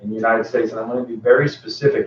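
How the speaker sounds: muffled behind a mask; speaking through a cloth mask; through a face mask. Real, not acted. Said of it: "I hope you can hear me with the mask on".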